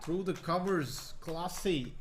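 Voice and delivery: put-on UK accent on commentary; crisp British commentator voice; posh English accent. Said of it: "We just got the U K out of him".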